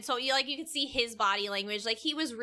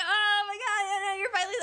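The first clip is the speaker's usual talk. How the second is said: much higher, louder, sing-song excited greeting; excited contractor; 11 semitones higher, 3 dB louder, faster than usual. Retold or imitated. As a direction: mimic his thrilled, sing-song welcome. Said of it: "he was all excited".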